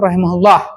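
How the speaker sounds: rahimahullah with the final vowel dropped; pausal ending. Shown as a demonstration. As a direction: stop on rahimahullah, closing on a bare h. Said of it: "biasanya diwakafkan".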